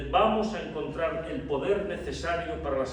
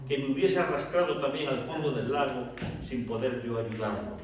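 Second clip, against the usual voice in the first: calm explanation; 4 semitones lower, 3 dB quieter than usual. Acted. Pedro calmly explains himself in story.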